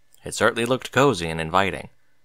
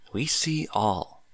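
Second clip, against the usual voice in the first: ominous warning; 5 dB quieter, slower than usual. A narrator's reading. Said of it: "looking Bucky in the eye".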